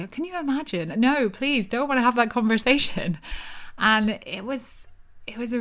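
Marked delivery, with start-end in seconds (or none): 0.0-3.2 kindly partner. Retold or imitated. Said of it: "Nico would kindly say".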